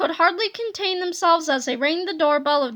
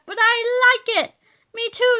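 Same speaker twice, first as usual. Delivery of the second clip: pleased; 7 semitones higher, 5 dB louder than usual. Acted. Parents happy about boys.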